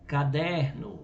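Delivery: caderno with a strong middle syllable, der; stress on DER. Shown as a demonstration. Teacher giving a paroxytone example, stress on the der of caderno. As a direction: lean on the second-to-last syllable of caderno. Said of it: "a penúltima sílaba é tônica".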